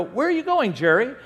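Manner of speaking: high-pitched retold challenge; alarmed questioning. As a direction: call out in mock alarm. Retold alarm at father-in-law driving.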